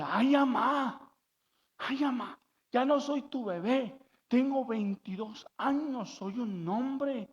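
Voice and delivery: lightly acted exasperated son; embarrassed grown son. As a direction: complain to mom that you're no baby. Grown son protests mother's babying.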